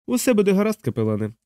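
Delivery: high-voiced cheering on; encouraging. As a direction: reassure in a high, lilting pitch. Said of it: "підбадьорливо мовив майор".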